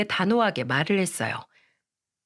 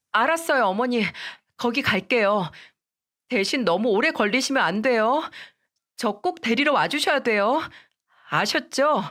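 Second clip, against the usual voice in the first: put-on higher, tearful-sounding young wife begging; a young wife pleading, voice pitched up; pleading daughter-in-law; 4 semitones higher than usual. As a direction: beg your mother-in-law not to force a divorce. Daughter-in-law agrees reluctantly.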